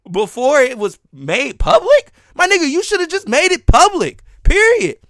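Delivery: heated, high-pitched rebuke; real indignation. Real, not acted. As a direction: tell them off, punching the last word. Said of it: "I am kinda mad right now".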